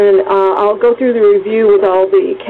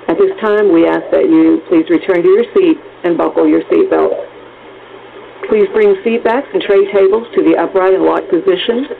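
flight attendant. Acted. Cabin emergency PA announcement.

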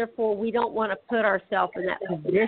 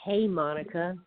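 sexy caller voice; 4 semitones lower than usual. Retold or imitated. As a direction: purr it like a sexy late-night caller. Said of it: "one of those sexy voices to call in and go".

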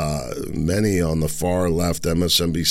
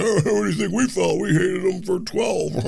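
mocking Hannity; 13 semitones higher than usual. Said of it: "he's like".

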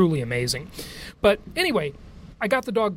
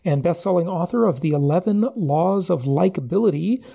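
louder polished host introduction; announcer intro; 4 dB louder than usual. Acted. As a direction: introduce the guest like a radio host. Formal guest introduction over music.

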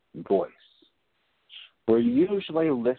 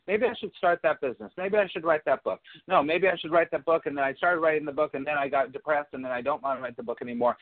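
monkey mind chatter; 3 semitones higher, much faster than usual. Retold or imitated. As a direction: rattle through the doubts like an anxious inner voice. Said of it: "this constant thing in the monkey mind".

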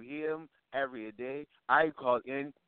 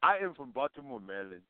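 thick Nigerian-accented English; 2 semitones lower than usual. Real, not acted. Caller telling radio hosts his hometown, Nigerian accent. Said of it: "with that accent".

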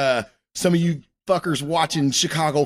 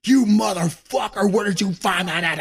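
mock jealous anger; 5 semitones higher than usual. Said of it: "and I'm like".

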